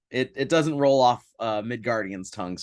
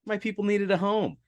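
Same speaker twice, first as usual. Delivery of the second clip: voicing Torulf; 9 semitones higher than usual. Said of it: "where did he come from?".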